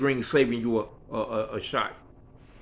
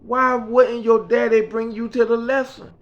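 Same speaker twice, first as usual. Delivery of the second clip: Mickey's voice; 10 semitones higher, 4 dB louder than usual. Retold or imitated. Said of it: "She said".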